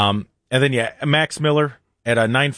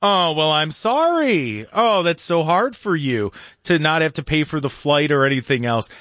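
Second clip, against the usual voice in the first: sarcastic president reply. Retold or imitated. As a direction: lay on fake pity, dripping sarcasm. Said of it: "the reporter's going".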